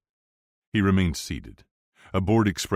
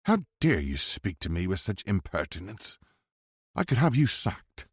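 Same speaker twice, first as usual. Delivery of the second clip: indignant posh English; 3 semitones higher than usual. A narrator's reading. Edward scolding the bodyguard, haughty posh English accent. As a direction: look down your nose in a posh English voice.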